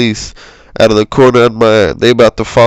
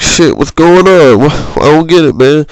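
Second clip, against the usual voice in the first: mock panic; 5 semitones higher, 3 dB louder than usual. Retelling waking on the conveyor belt, mock panicked. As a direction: sound freaked out and confused.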